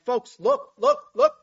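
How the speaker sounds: shouted high look, look; loud call for attention. Acted. Preacher voicing God calling the people to look up. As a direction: clap for the crowd's attention. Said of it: "as if he's clapping his hands".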